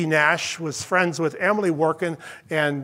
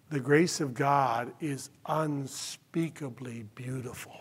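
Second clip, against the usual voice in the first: softer, slow, reverent; hushed awe; 4 semitones lower, 9 dB quieter than usual. Real, not acted. Pastor to friends after the funeral story, hushed awe. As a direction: let it fall almost to a hush.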